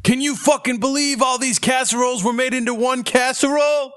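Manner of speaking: very high, put-on showman voice; mock amazed presenter. Playing Ripley's showing off a record casserole, mock amazed. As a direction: marvel in a high, silly voice.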